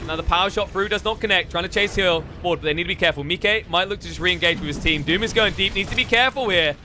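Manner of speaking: lively esports commentary; play-by-play. Acted. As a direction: call the fight as it unfolds. Casts live play-by-play.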